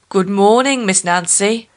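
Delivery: a lion's loud greeting; lion calling out. Acted. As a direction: call to her from the tree. Tied lion calls out to Nancy.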